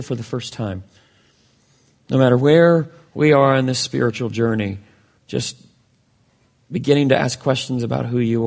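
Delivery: measured prayer with long pauses; public prayer. Real, not acted. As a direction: address God, pausing between phrases. Leads congregation in prayer.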